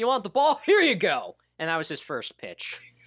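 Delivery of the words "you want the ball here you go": high, loud, put-on little Irish accent, called out. Retelling what a player said before his first pitch, in a little Irish accent. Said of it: "talking his little Irish accent".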